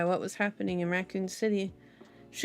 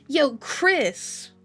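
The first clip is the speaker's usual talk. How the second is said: raised, louder friendly call; 4 semitones higher, 4 dB louder than usual. A narrator's reading. Forrest hailing Chris by the soda machine, calling out. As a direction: call down the hall to a pal.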